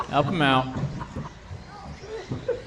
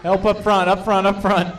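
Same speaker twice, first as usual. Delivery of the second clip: sharp playground warning; 6 semitones higher, 3 dB louder than usual. Real, not acted. Calling marshals to crash.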